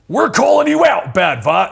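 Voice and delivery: lightly put-on strongman taunt; Hans and Franz. Host reads comic lines as Hans and Franz, half-formed impression. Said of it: "how do you do Hans and Franz?".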